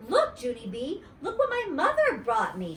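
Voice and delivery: put-on high, eager little-girl voice, rising on look; Grace bragging. A narrator's reading. Grace showing Junie B her new shoes, high and eager. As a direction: show off the new shoes to your friend.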